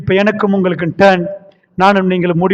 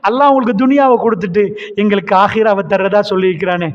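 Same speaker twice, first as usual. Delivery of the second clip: ordinary talk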